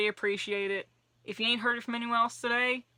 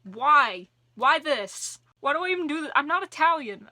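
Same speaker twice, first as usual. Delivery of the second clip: higher and louder, laughing at herself; mock exasperation; 5 semitones higher, 6 dB louder than usual. Real, not acted. Vlogger teasing her own Italian hand gestures, mock exasperated. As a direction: playfully scold your own hands. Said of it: "why my hands have turned Ita".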